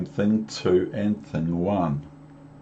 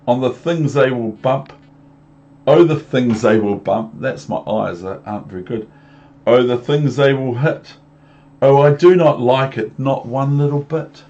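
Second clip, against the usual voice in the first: fish voice; 3 semitones higher, 7 dB louder than usual. Acted. Fish frets.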